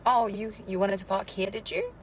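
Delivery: passive aggressive. Acted. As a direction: needle him, lifting sharply on the final tag question. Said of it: "Passive aggressive".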